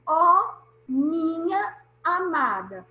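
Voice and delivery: slow, drawn-out verse reading. Shown as a demonstration. Teacher reads a verse example to the class, slow and drawn out. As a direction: savour each syllable of the poem line. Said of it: "prestem atenção aqui".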